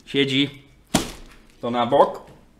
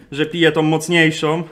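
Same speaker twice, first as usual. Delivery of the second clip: ze śmiechem; 5 semitones higher, 5 dB louder than usual. Real, not acted. Laughs at own coffee mistake.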